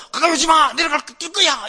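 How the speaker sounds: high, very loud threatening yell; hammed-up shouted warning; mock defiant shouting. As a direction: imitate a man yelling down from a bridge. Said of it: "큰소리 빵빵 치면서".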